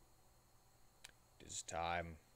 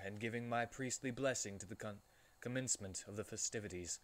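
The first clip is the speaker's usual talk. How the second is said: reading with a mouthful of cake; mouth full; 2 semitones higher than usual. Real, not acted. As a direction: talk through a bite of cake. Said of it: "I'm gonna do this with my mouth full".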